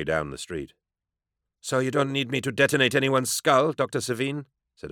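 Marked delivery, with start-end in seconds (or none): 1.6-4.5 high, sly female voice; cool woman pilot. Acted. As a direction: tease with dry menace.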